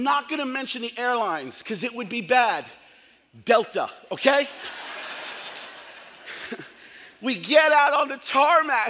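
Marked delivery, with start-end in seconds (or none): 3.4-4.5 laughing jab. Real, not acted. Jab at the airline. 4.5-5.8 short breathy laugh after the joke. Real, not acted.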